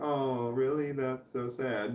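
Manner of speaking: soft, slow, put-on sad sympathy; fake sympathy. Shown as a demonstration. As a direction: drop it soft and slow like rehearsed pity. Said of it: "you gotta say shit a certain way".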